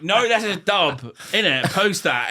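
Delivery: hyped mate. Retold or imitated. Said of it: "He'd be like".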